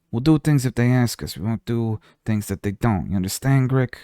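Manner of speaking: put-on mild mob boss accent, unhurried; lightly done gangster boss explaining the rules; Godfather accent. Godfather explains to goblin Grick, light mob accent. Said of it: "I love doing the Godfather".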